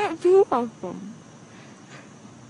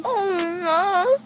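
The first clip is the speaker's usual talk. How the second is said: crying; 5 semitones higher than usual. Real, not acted. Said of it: "No, you're not".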